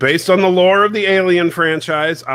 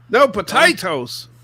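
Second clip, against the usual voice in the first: slow, higher teasing put-on voice; mock Irish taunt; 4 semitones higher than usual. Co-host teases Revan about potatoes, slow mock Irish taunt. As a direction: draw out a teasing Irish-style jeer.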